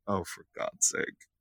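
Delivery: breathy unvoiced groan of defeat; whispered exasperation. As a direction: whisper it in despair. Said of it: "And I'm like".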